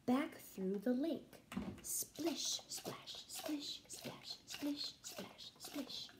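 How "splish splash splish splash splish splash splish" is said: breathy whispered rhythm; whispered swish swash. Acted. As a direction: whisper the grass noises softly. Whispered water sounds.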